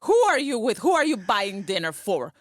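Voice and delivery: furious mock interrogation; jealous accusation. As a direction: fire off the questions like a jealous wife catching him out. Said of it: "I thought".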